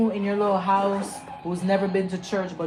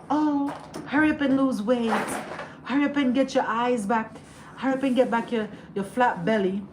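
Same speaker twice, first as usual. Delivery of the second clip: higher nagging mock voice; mocking sister; 5 semitones higher than usual. Sister mocked nagging her after birth, higher and nagging. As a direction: mimic her bossy nagging. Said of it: "telling her all type of shit like".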